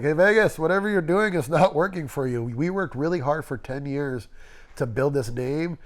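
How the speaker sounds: imitated boss, politely critical, lilting opening; nice passive-aggressive. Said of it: "he was a nice passive aggressive".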